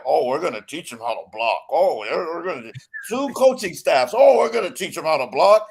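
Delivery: lightly voiced smug team bosses; mocking the front office. Host mocking the team's excuses in a mild sneer. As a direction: sneer out their excuses, oh we're gonna. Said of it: "Then you're like".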